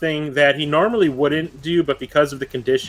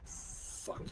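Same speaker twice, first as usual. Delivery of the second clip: barely audible whispered curse; under his breath; 28 dB quieter than usual. Acted. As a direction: swear under your breath, almost no voice. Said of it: "under his breath".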